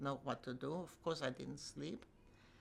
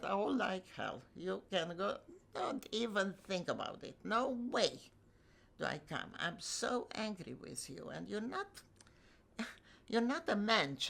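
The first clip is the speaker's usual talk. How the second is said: retold angry rebuke; 4 semitones higher than usual. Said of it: "I was so angry".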